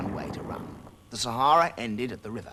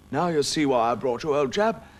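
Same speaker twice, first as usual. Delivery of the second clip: mouse voice; 4 semitones higher, 8 dB louder than usual. Acted. Arthur addresses Samson, mouse voice.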